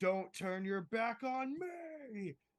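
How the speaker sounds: very slow, rising full-lung scream, "me" stretched out. Playing a ten foot tall Jotun, yelling at a turning foe: screaming at the top of lungs. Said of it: "I am screaming at the top of my ten foot tall Jotun lungs".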